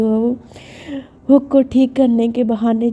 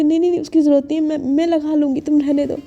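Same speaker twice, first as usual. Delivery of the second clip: panicked rush; 5 semitones higher, faster than usual. Acted. Rushed panicked refusal.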